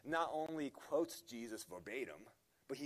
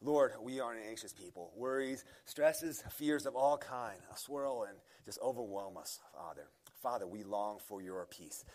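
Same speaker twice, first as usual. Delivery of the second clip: prayer; 2 semitones lower than usual. Acted. Opening prayer before sermon.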